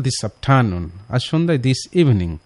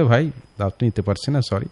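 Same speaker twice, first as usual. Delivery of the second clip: polite refusal; 4 dB quieter, faster than usual. Retold or imitated. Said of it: "বিনয়ের সাথে যখন অস্বীকার করা".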